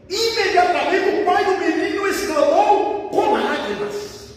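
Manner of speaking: high, emphatic pulpit storytelling; impassioned preaching. Real, not acted. Preacher telling of the father's tearful cry, impassioned preaching.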